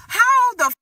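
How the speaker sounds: high, loud, cut-off yell; angry outburst. Retold or imitated. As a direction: shout it, then bite off the curse. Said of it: "I'm pissed 'cause I'm like".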